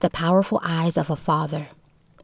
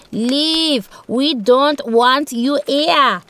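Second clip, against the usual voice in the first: higher, louder angry yelling; angry villager; 6 semitones higher, 3 dB louder, much slower than usual. A narrator's reading. Villager yells at the Yaseti to leave, angry. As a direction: drive the strangers off with the words. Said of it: "another villager cursed".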